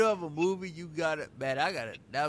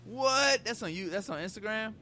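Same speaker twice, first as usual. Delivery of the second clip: pitched-up burst of surprise; shocked; 7 semitones higher than usual. Real, not acted. Reacts to blunt video story.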